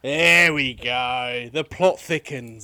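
mock dramatic. Mock drama at German wife news.

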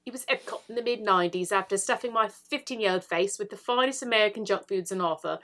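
reading in a fake British accent. Shown as a demonstration. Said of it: "Maybe I should do this in a British accent".

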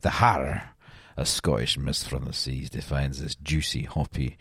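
hint of a Scottish brogue, low and soft; Scottish accent. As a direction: read the beer label like a Scots ad voice. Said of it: "I really thought that was a good Scottish accent".

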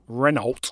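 Renault said as "REN-olt"; spelling pronunciation. Shown as a demonstration. Co-host teases the host's rule, Renault said as spelt. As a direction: sound the l and t of "Renault". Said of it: "because I'm being consistent".

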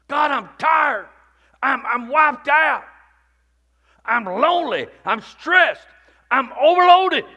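mild, weary prayer of complaint; acted prayer of exhaustion. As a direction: pour out tiredness to God. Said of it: "I told him I'm mad at him".

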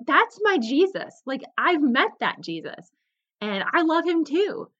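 put-on light up as if finding an old friend; excited recognition. Camper gushing to herself about the speaker, excited.

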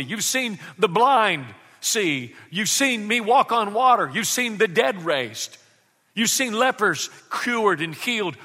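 Jesus pressing his disciples, rising in force; earnest Jesus. Acted. Jesus challenging his disciples, building intensity.

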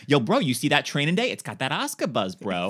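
lightly voiced hyped-up teen bro; a hint of a dude spreading the hype. Freshman self hyping a movie to classmates, mild bro voice. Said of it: "this is how apparently I talked".

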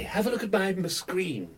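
light Yorkshire vowels; Yorkshire accent. Acted. Doctor shows visitors his screen, light Yorkshire accent. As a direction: say it with a hint of Yorkshire. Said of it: "Is that a Yorkshire accent".

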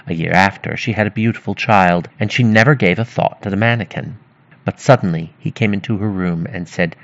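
measured fairy-tale reading, clearly projected; story narration. A narrator's reading. Narrator telling of the miller's daughter, storytelling voice. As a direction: read it out like a storyteller.

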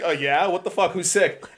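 high, imitated alarmed questioning; retold freak-out. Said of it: "started freaking the fuck out".

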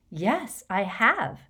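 mildly startled reply. A narrator's reading. Hermione answering Harry about Greyback, mildly startled. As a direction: answer with a touch of alarm. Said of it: "sounding startled".

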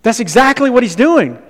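playful imitation of a student's cooler phrasing; mock cool voice. Shown as a demonstration. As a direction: copy the cooler kid's delivery, a bit hammed-up. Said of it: "You're way cooler than I am".

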